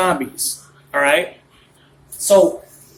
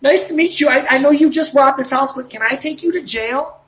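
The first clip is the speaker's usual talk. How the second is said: higher, sugary sarcastic politeness; mock politeness; 5 semitones higher than usual. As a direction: play a cop sucking up to a robber. Mock polite cop to robber.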